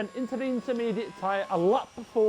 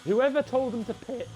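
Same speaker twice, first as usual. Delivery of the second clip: voice cracking; 2 semitones higher than usual. Real, not acted. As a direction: voice cracks mid-line. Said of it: "voice crack".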